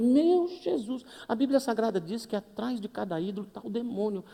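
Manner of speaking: mock alarm at the idols; shocked aside. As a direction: act startled by the idols. Preacher quoting, shocked aside.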